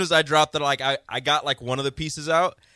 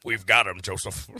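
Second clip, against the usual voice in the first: put-on old-timey detective; 6 semitones lower than usual. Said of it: "I should be the voice of an old-timey detective cartoon".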